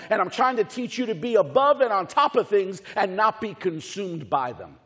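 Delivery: emphatic sermon delivery, punching key words; driving pulpit delivery; preaching. Acted. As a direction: preach it with conviction, dropping on the last words.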